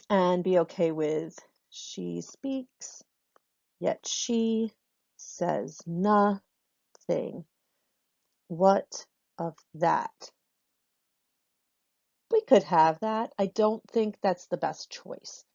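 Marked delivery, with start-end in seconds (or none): 1.7-10.3 says and nothing drawn out slowly; slow scansion. Shown as a demonstration. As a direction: scan the line beat by beat. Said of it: "So we could look at this one".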